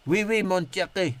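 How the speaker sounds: mock French accent, lightly; hint of a hammed French accent; French phrase. Shown as a demonstration. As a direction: toss off a schoolboy French line. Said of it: "that's my French".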